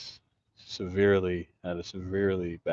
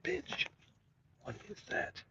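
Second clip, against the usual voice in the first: startled, much higher, softer cries; real shock at a sting; sudden pain yelp; 8 dB quieter than usual. Real, not acted. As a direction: yelp as something stabs you. Something suddenly stings him.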